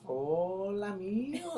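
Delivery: high, drawn-out mock auntie holler; yelled greeting. Imitating tías greeting you at a party, yelled hello. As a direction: holler hello as if it were a telling-off. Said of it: "like, yelling at you".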